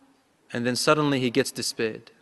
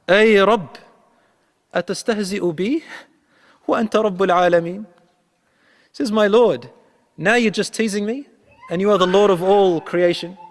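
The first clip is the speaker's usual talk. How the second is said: pleading disbelief; 6 semitones higher, 4 dB louder than usual. Retold or imitated. Man pleading with Allah, disbelieving.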